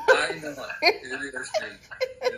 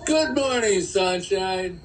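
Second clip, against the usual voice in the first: cheery greeting; 3 semitones higher, 4 dB louder, slower than usual. Real, not acted. Dad's signature greeting.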